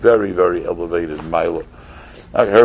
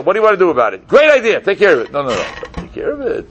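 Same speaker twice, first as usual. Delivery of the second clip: mock pompous speaker; 9 semitones higher, faster than usual. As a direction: parody a know-it-all at meetings. Mocking a pontificating committee member.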